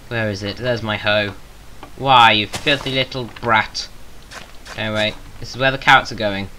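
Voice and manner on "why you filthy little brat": slow, lightly hammed-up villain scold; a hint of a pantomime villain; mock scolding. Mock scolding an animal in the game, lightly hammed.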